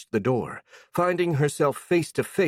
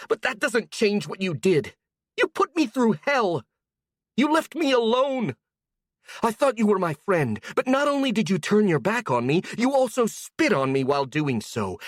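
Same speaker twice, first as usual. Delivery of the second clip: much higher, furious tirade; high raised voice; 11 semitones higher than usual. Acted. A girl listing betrayals to her old friend, high. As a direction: keep the pitch up in fury. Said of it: "Her voice rose by many octaves".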